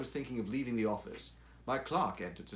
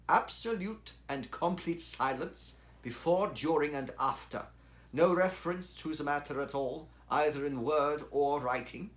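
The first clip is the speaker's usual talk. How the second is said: insistent demand; 5 semitones higher, 5 dB louder than usual. A narrator's reading. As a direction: press the demand home, word by word. Colonel insists on total silence.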